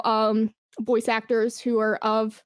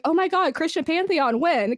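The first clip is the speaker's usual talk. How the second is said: higher, gushing fan voice; mock excited fan; 5 semitones higher than usual. Developer mimicking fans asking for the Christian pantheon, mock excited. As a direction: imitate an eager fan begging for it. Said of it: "anytime somebody's like".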